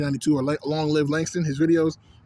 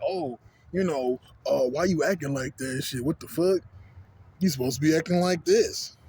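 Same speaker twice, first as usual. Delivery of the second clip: mock scolding onlooker. Vlogger mimics people judging him, lightly mocking. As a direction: drag it out like a judgy stranger. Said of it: "They'll be like".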